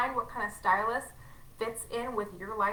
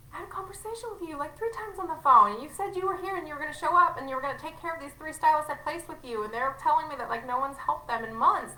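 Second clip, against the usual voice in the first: higher, exasperated retelling of her own reply; exasperated retort; 5 semitones higher than usual. Retold or imitated. Telling followers how she answered an ungrateful stylist, exasperated and higher. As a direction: replay your frustrated answer to the stylist. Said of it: "And I'm like".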